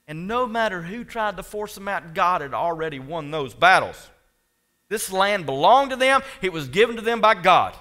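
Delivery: preacher building up with conviction; emphatic preaching. Real, not acted. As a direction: drive it home to the congregation. Preaching at full force.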